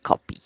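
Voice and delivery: coffee said as kopi with a p; coffee with p replacing f; Filipino accent. Shown as a demonstration. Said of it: "My Filipino accent slipped".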